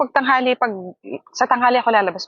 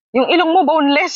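higher, louder taunt; mocking insult; 6 semitones higher, 3 dB louder than usual. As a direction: tease it like a mean commenter. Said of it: "sabi sa akin". (nanunuksong boses)

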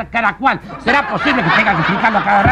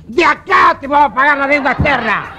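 mock shout from the crowd; 4 semitones higher, 3 dB louder than usual. People shouting at the ambassador.

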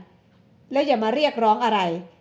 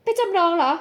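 higher, slow, stunned cry; pained exclamation; 6 semitones higher, slower than usual. Acted. Woman learns her brother pawned the deed, stunned. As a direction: gasp out the brother's betrayal. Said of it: "หญิงสาวอุทานด้วยความเจ็บปวดเสียใจ".

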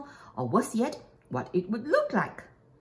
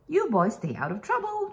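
higher, friendly smiling mom; a mom cheerfully sending the boys off to play; 9 semitones higher than usual. A narrator's reading. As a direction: warn them with a smile in the voice. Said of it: "she said, smiling".

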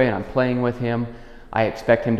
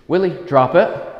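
higher, louder and slow; firm command; 8 semitones higher, 5 dB louder than usual. Real, not acted. Trainer calling Willie to drop the chew, high, loud and slow. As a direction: call his name and give the order clearly.

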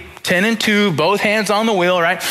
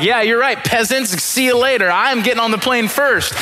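snooty first-class passenger; 6 semitones higher than usual. Pretend. Pastor pretends to be a smug first-class flyer, lightly haughty. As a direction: look down on the passing peasants. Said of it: "I would be like".

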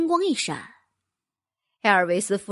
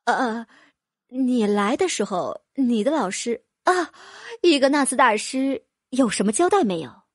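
hesitant. Acted. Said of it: "吞吞吐吐地说道".

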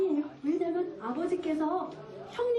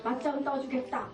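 low, halting duel challenge; lightly voiced challenger; 5 semitones lower, 3 dB quieter than usual. Challenger facing the foe before the fight, low mock menace. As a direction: lay down the challenge low, with heavy pauses.

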